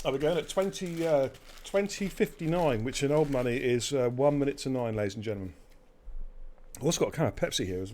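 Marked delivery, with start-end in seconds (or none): 0.1-5.5 talking through a mouthful; eating while talking; chewing noisily. Real, not acted. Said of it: "you have to excuse me eating".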